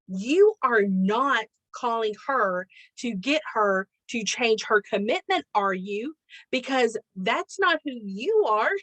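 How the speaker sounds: slow, deliberate mock reproof; admonishing husband. Husband catches wife about to call daughter, admonishing. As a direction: imitate a firm telling-off, spacing out the words. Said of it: "how he admonished me".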